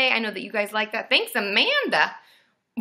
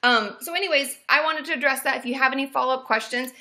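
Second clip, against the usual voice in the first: usual speaking voice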